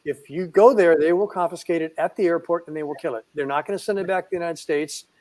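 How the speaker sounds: retold blunt warning, firmly spelled out; real plain, blunt. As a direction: lay it out in no uncertain terms. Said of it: "I wanted to be real plain".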